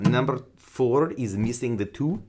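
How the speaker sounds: slow, put-on Russian accent. Shown as a demonstration. Guitar teacher introduces exercise four, in slow Russian accent. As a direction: say it slowly as a mock Russian. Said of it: "That is Russian accent".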